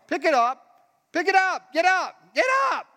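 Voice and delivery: rising, high insistent shouts; urgent exhortation. Real, not acted. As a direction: spur them on, building each time. Preacher urging immediate action.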